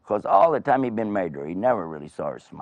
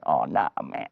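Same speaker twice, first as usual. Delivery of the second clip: weary dismay; 4 semitones lower than usual. Acted. King dreading wife's tears.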